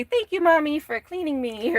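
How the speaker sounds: high cute puppy voice. Pretend. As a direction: squeak it out like a grateful puppy. Voicing the puppy's thanks.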